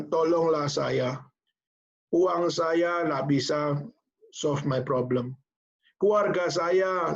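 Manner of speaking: slow, pleading confession to God; mild desperate prayer. Retold or imitated. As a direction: drag the words out in a broken prayer. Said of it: "dia pada saat dia berdoa sama Tuhan".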